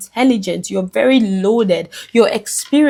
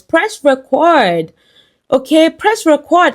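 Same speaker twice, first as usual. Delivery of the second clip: higher, slower, building urgency; rising urgent plea; 6 semitones higher, slower than usual. Real, not acted. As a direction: push harder each time. Repeated urging climax.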